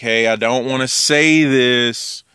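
slow, hesitant imitation of reluctance; reluctant. Someone sincerely hating to correct a friend, mildly reluctant. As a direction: drag it out as if loath to say it. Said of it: "if the person is very reluctant".

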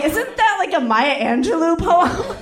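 high, laughing question; teasing laugh at his rhyme; laughing disbelief. Retold or imitated. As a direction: giggle through the question. Friends mocking his rhyme.

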